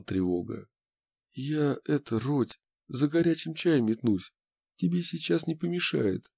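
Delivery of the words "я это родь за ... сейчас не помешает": friend's voice. A narrator's reading. Lev voiced by narrator.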